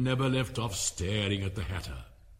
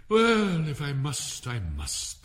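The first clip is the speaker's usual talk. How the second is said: melancholy air; 3 semitones higher, 5 dB louder, slower than usual. Acted. King reluctantly agrees, falling into melancholy. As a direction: sigh it out reluctantly. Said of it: "with a melancholy air".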